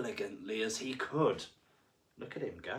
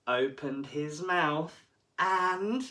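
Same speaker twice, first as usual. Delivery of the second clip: suspense build; 5 semitones higher, 5 dB louder, much slower than usual. A narrator's reading. Suspense before the bite.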